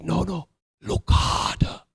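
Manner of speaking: slow, insistent monkey character; drawn-out cartoon-monkey voice; Rafiki's accent. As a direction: press the point in a put-on accent. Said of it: "in his wonderful accent".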